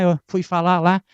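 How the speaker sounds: ordinary talk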